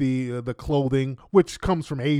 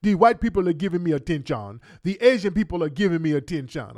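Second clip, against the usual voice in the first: mock dismissive reply. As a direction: brush them off in a fast mocking voice. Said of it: "and y'all tell us".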